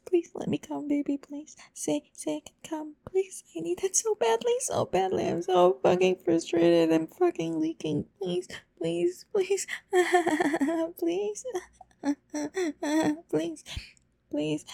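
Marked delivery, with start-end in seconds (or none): 3.1-14.7 desperate begging. Acted. Begging to be allowed.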